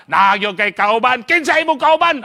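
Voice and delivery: spring the question to startle; teacher startling. Retold or imitated. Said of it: "kusog kitong manggulat". (kusog nga pangutana sa maestro)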